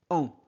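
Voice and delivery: « en » nasal; son en. Shown as a demonstration. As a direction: dire « en » comme dans champ. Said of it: "A M se prononce". (« en » nasal pour A M)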